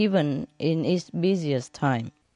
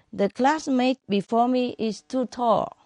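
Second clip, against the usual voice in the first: put-on child's excuse; 7 semitones higher than usual. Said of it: "And Lily".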